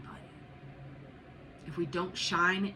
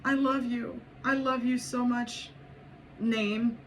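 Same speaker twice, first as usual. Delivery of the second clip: higher-pitched, emphatic affection; nurturing self-talk; 5 semitones higher, 3 dB louder, slower than usual. Acted. Reader modelling kind words to yourself, emphatic nurturing affection. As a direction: tell yourself you are deeply loved. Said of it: "Are you nurturing to yourself".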